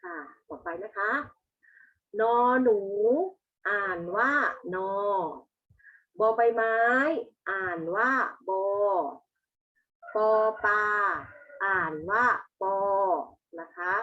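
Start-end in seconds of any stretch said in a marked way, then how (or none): 2.2-12.8 classroom recitation. Shown as a demonstration. Teacher leads pupils in reading the consonants, classroom recitation. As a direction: recite each letter name louder, then its sound.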